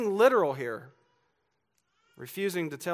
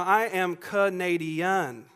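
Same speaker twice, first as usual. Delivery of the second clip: put-on slow, louder claim in a Georgia accent; betraying Georgia accent; 3 semitones higher, 6 dB louder, much slower than usual. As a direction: insist on it syllable by syllable, Georgia accent showing. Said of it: "the more we know you're lying".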